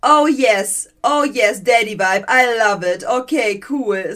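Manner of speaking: loud, eager oh yes; gushing fan. Retold or imitated. TikTok girl thrilled by her kidnapper, loud gushing. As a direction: gush with delight. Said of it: "Und dann so".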